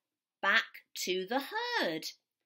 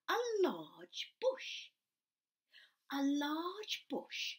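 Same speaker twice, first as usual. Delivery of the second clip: dramatic reveal; 5 semitones higher, 5 dB quieter, slower than usual. A narrator's reading. Reading to children, dramatic reveal.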